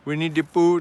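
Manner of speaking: light mock Jamaican lilt; Jamaican accent. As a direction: slip into a playful touch of Jamaican accent. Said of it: "like, a Jamaican accent".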